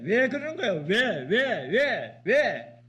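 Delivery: loud, high mock wail of why; a believer whining at God, hammed-up loud wail; mock whining complaint. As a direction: ham up a petulant complainer demanding why.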